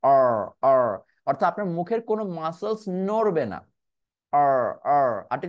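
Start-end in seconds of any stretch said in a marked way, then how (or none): 0.0-0.8 অর with a back r and no lip movement; r held back in mouth. Shown as a demonstration. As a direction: say অর deep inside, lips still. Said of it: "একটু ভেতরের দিকে উচ্চারণ করবেন". (ঠোঁট না নেড়ে ভেতরে অর)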